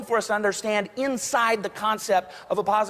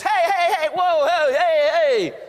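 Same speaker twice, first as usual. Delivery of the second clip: loud high calls of hey to stop someone; calling out; 8 semitones higher, 5 dB louder, slower than usual. Retold or imitated. Closer guy runs after the buyer, calling him back loudly. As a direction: shout after him across the lot.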